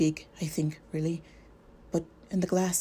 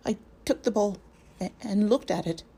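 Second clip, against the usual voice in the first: frightened stammer, higher and halting; 4 semitones higher than usual. Acted. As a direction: stumble over the words, scared. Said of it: "stammered Pippin".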